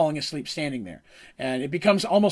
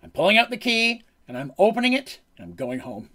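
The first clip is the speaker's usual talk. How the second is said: insistent; 5 semitones higher, 4 dB louder than usual. Retold or imitated. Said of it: "She goes".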